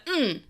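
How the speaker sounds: upbeat wordless yes; energetic acknowledging grunt. Retold or imitated. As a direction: imitate an energetic noise of acknowledgement. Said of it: "an energetic".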